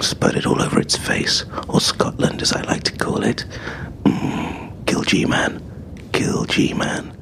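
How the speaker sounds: slow breathy whisper; whispered ASMR weather. Acted. Weatherman giving his second forecast in a slow ASMR whisper. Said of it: "this time just explain the weather".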